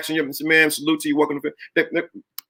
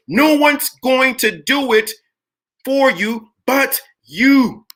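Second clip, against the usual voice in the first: slow building preach; 6 semitones higher, 3 dB louder, slower than usual. Shown as a demonstration. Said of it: "repeated line".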